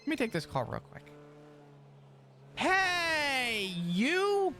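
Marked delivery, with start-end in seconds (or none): 2.6-4.5 overly chipper, put-on hello; odd greeting voice. Real, not acted. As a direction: answer the phone in a fake cheery voice. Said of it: "why are you saying it like that".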